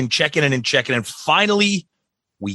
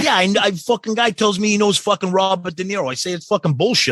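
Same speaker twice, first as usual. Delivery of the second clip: lightly voiced brash New Yorker, higher and fast; imitating the New York guy; 8 semitones higher than usual. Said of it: "Be like".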